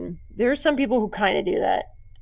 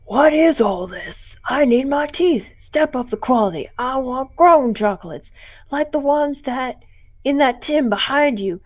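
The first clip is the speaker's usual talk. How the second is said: put-on loud, higher greedy kid voice; demanding trick-or-treater; 3 semitones higher, 5 dB louder than usual. A costumeless trick-or-treater bossing the homeowner, loudly demanding. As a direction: demand the treats like a spoiled brat. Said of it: "That's what it really sounded like".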